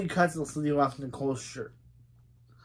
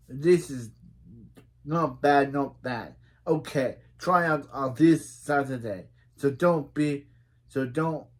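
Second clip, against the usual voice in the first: put-on British accent. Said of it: "so I have to do my good British accent".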